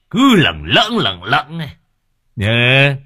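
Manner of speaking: slow, wheedling, coquettish drawl; coy drawn-out flirting. A narrator's reading. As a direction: stretch it out, coaxing and flirty. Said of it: "kéo dài một tràng, nghe vừa nũng nịu, vừa vồn vã, vừa lả lơi".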